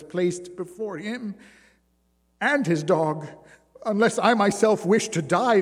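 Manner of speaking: weary circus woman telling her plight; woman's voice. Acted. Jeanne tells her suffering.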